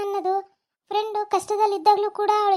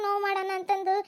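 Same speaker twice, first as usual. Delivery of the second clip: crying. Acted. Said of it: "ಅಳ್ಬೇಡ ಕಾವ್ಯ".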